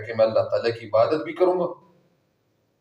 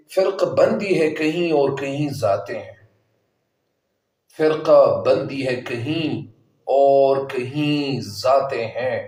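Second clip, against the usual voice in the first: measured couplet delivery, slowing on the repeat; verse recitation; 2 semitones higher than usual. Shown as a demonstration. Teacher quoting Iqbal's verse to support the lesson, measured recitation.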